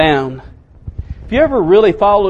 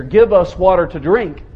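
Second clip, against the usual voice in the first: demanding tone. Shown as a demonstration. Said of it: "serious, demanding kind of tone of voice".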